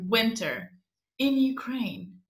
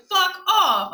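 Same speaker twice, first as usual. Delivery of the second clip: higher, louder, giggly curse; laughing curse; 8 semitones higher, 7 dB louder than usual. Retold or imitated. At the closed door, laughing curse. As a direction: spit it out half crying with laughter. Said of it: "I'm like".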